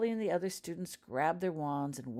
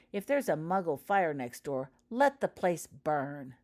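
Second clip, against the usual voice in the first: louder, slow scornful drawl; derisive; 2 semitones higher, 6 dB louder than usual. Acted. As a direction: sneer it with contempt. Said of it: "snorted Martina Goyle derisively".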